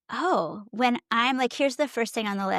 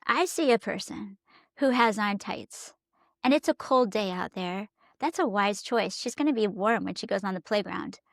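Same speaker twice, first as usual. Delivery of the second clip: encouraging; 2 semitones lower than usual. Retold or imitated. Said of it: "what could I say that's encouraging".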